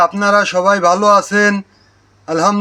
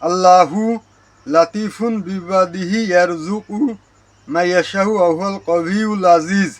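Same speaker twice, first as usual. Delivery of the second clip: quranic recitation. Shown as a demonstration. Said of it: "আল্লাহু একটা টান হবে".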